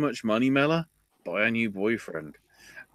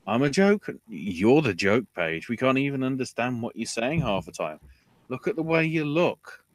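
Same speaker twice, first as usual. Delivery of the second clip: mock insult; 4 semitones higher than usual. Voicing Ellsworth insulting Paige.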